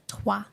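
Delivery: "Toi" as a single "twa" sound; French syllable. Shown as a demonstration. Commentator showing the French part of her middle name, syllable picked out. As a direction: isolate "Toi", said twa with a clear w. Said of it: "It's French".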